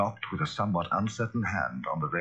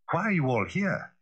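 lawyer voice; 10 semitones higher than usual. A narrator's reading. Lawyer asks.

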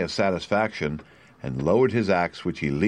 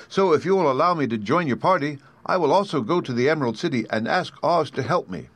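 creaky Tin Woodman; 6 semitones higher than usual. A narrator's reading. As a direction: creak out the plea like a stiff tin man.

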